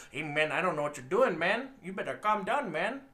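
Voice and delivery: exaggerated Hispanic accent; put-on movie accent. Mocking the actor slipping into a Hispanic accent. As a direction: lay the Hispanic accent back on. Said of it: "he would go this whole accent".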